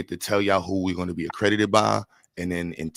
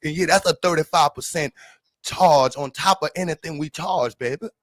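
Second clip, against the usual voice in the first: high, loud hammed-up country price-gouger, half singing; mock southern contractor; 11 semitones higher, 7 dB louder than usual. Southern inspector teasing a New York client, hammed-up high and loud. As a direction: sweet-talk the New Yorker while jacking up the price. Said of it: "they like".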